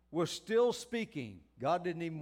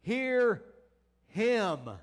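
slow solemn proclamation, rising louder on hear him; voice from the cloud; 2 semitones higher, 5 dB louder, slower than usual. Acted. Preacher voicing God again, slow and booming. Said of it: "notice what this voice said".

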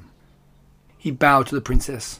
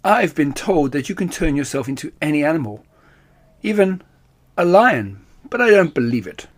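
sly purring challenge; 2 semitones higher than usual. Acted. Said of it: "The cat purred".

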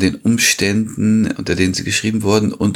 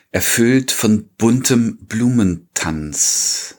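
slow, measured poetry reading; poem recital; 3 semitones higher, slower than usual. Acted. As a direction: recite the verse line by line, lingering on the words. (langsamer, getragener Gedichtvortrag)

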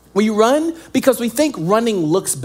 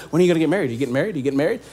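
nagging relative; 9 semitones lower, 5 dB quieter, much faster than usual. Retold or imitated. Nagging relatives asking about marriage.

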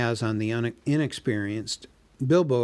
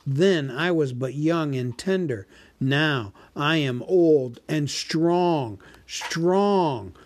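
slow, loud, booming boast, much higher; gloating dragon; 3 semitones higher, 4 dB louder, slower than usual. Acted. Dragon gloats over his might to the hobbit. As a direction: savour every boast like a vast old dragon. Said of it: "he gloated".

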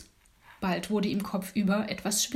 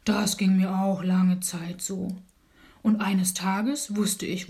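slow, lightly voiced bear, a bit louder; rumbling bear; 3 dB louder, slower than usual. Bear confides in the sleepless dormouse, slow and rumbling. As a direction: amble through it like a big old bear. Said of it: "brummte der Bär".

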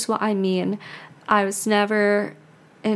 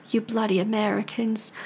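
lightly imitated British accent; mock a Brit with a half-hearted British accent. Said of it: "not gonna be my best British accent".

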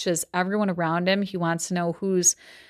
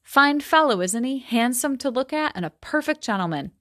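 measured novel reading voice; story reading. A narrator's reading. Teacher reading a Gatsby passage aloud, steady storytelling. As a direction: read the passage to the class.

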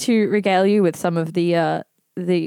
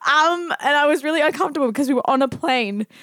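put-on old lady voice; 4 semitones higher than usual. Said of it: "imitating an old lady".

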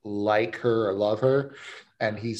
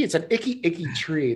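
mocking icky tree; 5 semitones higher than usual. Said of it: "the funniest thing about that sketch".

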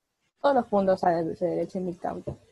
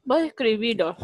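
mouth full; 2 semitones higher than usual. Real, not acted. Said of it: "estoy hablando con la boca llena".

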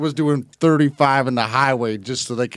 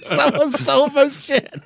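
squeaky mock whine; 13 semitones higher than usual.

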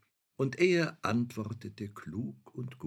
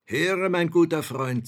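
grand lordly voice; 8 semitones higher, 10 dB louder than usual. Acted. Shadow addresses the learned man.

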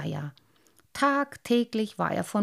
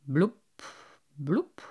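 pensive; 4 semitones lower than usual. A narrator's reading. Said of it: "machte der Karpfen Cyprinius versonnen".

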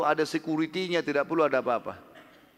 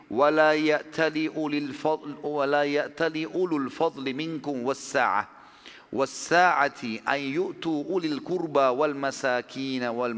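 slow, drawn-out chanted recitation; Quran recitation; slower than usual. Acted. Preacher reciting the verse to his congregation, slow melodic chant.

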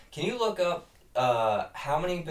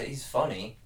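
flat sarcastic. Real, not acted. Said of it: "Why did you say funny like that?".

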